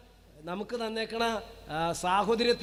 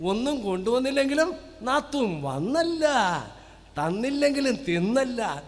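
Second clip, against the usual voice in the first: mocking saying; 3 semitones higher, 4 dB louder than usual. Repeats mocking saying, raised.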